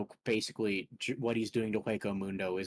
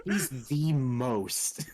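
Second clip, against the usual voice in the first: laughing; 4 semitones higher, 4 dB louder, much slower than usual. Real, not acted. Laughing at the fanatic villain.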